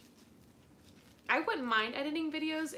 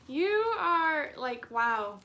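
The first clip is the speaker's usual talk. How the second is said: awed gush; 4 semitones higher, 8 dB louder, slower than usual. Real, not acted. Gushing at a viewer.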